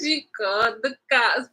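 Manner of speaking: words breaking out through laughter; laughing. Real, not acted. Apologizing to viewers for laughing at the story, laughing. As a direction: laugh as you repeat the twist. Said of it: "I'm sorry, I laughed".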